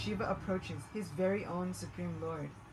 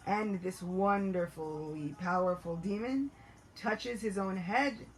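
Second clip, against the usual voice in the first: ordinary delivery, nothing marked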